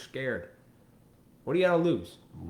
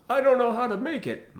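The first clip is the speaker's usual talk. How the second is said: high, louder whiny parody; mock helpless whine; 13 semitones higher, 6 dB louder than usual. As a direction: mimic a helpless excuse-maker. Mocking helpless person.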